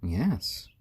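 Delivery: tiny breathy whisper; 1 whispered yes. Real, not acted. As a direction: whisper it to the chick. Whispered to chick.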